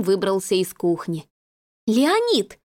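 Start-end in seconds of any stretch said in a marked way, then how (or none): 1.9-2.6 sharp, raised call of his name; a ringing warning. A narrator's reading. Lola summoning Leonid to issue an ultimatum, ringing. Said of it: "звенящим голосом сказала Лола".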